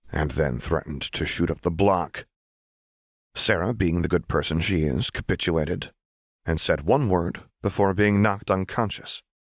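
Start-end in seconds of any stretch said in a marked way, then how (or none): none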